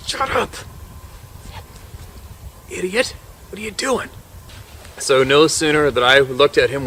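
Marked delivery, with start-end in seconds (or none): 0.1-4.1 angry whisper. Retold or imitated. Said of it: "I'm like".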